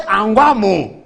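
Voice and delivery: loud, high, drawn-out repeat, acted; incredulous echo. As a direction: echo it back in mock disbelief. Echoes an unexpected offer in disbelief.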